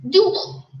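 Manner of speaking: "dual" said as TOO-ul, two beats; drawn-out "dual" for TOO-ul; Korean two. Shown as a demonstration. 한국어 "둘", 두 박자로 또박또박. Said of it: "Dual is the way you say it in Korean".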